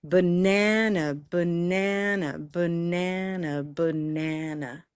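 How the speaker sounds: slow, even "Banana" cycles with NAN drawn out; cycles of stretched stress. Shown as a demonstration. Teacher demonstrating cycles of four, stretched middle syllable. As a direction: repeat "Banana" on a steady beat, outer syllables reduced to schwa. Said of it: "do this in cycles of four times".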